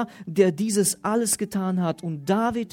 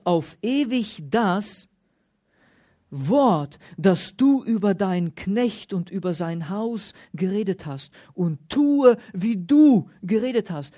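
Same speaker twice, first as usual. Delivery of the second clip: solemn Bible reading, stressing du and Herr; emphatic preacher's scripture read; 3 dB louder than usual. Acted. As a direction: read the prayer out to the congregation.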